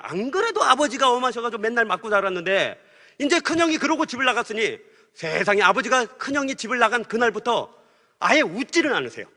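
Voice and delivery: ordinary delivery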